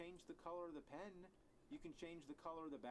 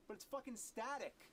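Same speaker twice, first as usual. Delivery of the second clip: angry outburst; 7 semitones higher, 4 dB louder than usual. Acted. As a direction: punch it out loud and high. Ranting about the noise.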